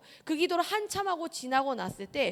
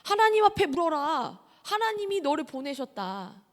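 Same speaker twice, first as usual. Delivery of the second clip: mother telling her son what to do, firm and louder; mother's firm answer; 3 semitones higher, 5 dB louder than usual. Retold or imitated. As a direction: quote your mother's rebuke with weight. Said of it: "저희 엄마가 그런 얘기를 하는 거예요".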